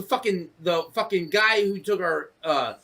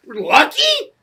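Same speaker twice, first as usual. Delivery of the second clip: loud, higher angry outburst; angry rant; 7 semitones higher, 5 dB louder than usual. Real, not acted. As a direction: let the anger out loudly. Venting anger, raised voice.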